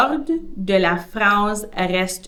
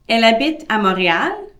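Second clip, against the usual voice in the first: "Montréal" lifted at the end, asked briskly; rising question tune; 3 semitones higher, 5 dB louder, faster than usual. Shown as a demonstration. Teacher models intonation question to learners. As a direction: let the voice rise on "Montréal" as a question. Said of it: "Another example".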